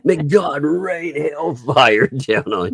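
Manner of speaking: slow, high, solemn doom voice; laying a curse. Pretend. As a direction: intone damnation slowly and high. Mock curse after fake sympathy.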